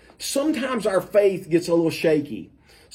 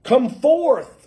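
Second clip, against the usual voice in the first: higher, somewhat louder mock cry; raised calling voice; 5 semitones higher, slower than usual. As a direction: call out a command, retelling it without full shout. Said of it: "he cried in a loud voice".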